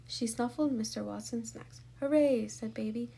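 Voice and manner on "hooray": higher, loud little hooray; joyful cheer. A narrator's reading. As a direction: cheer it out with relief. Baby cheers that pig is fine.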